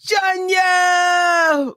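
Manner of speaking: high, delighted call of a name; light up as you call her in; excited greeting. Real, not acted. Host greeting a viewer in chat, excited high call.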